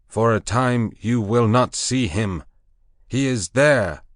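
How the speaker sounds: high, loud commanding proclamation; proclaiming loudly. Acted. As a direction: lift the voice over the beasts. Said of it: "lifted up my voice".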